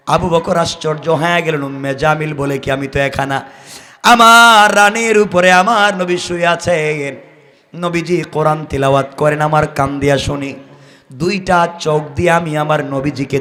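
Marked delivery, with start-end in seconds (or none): none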